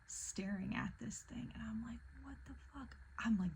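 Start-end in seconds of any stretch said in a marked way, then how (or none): 2.2-2.9 high, hushed retold shock; barely voiced astonishment; stunned disbelief. Retold shock at seeing the billboard.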